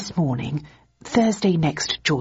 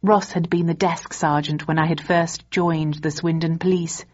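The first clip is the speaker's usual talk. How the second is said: usual speaking voice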